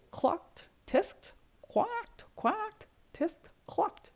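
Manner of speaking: high clucking, quacking chatter; animal chatter. Acted. The birds fuss at the pigs in high clucky voices. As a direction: make it sound like a barnyard fuss.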